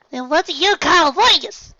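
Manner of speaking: very high, loud challenge; Apple Bloom yelling. Acted. Apple Bloom confronting Applejack, loud high yell. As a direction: shove the proof at her. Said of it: "the little filly yelled".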